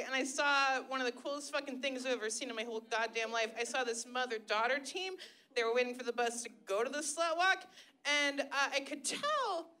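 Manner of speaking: ordinary talk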